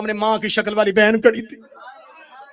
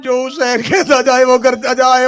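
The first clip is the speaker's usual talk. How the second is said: forceful command; 3 semitones higher, 6 dB louder than usual. Acted. Repeated command, loud take.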